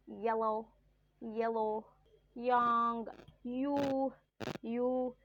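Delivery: put-on "yellow", "young", "you" said one by one with a clear Y; example words for Y. Shown as a demonstration. Teacher showing students the Y sound, separate careful example words. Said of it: "Y in English. When I say".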